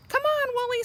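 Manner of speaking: high, bright call to the sheep; fond farmer. A narrator's reading. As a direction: call the sheep home fondly. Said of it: "said Missus Boot".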